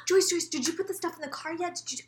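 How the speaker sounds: mock mom checking up in a fluster; imitated fretting mother. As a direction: nag with a repeated name, acted. Imitates mother pestering after a gasp.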